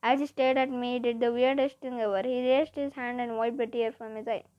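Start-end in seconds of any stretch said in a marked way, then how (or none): none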